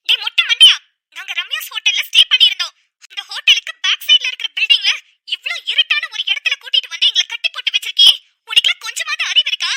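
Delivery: loud taunting yell at the captor; defiant shout. Acted. Captive girl yelling at bald kidnapper to leak location. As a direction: shout so the phone hears.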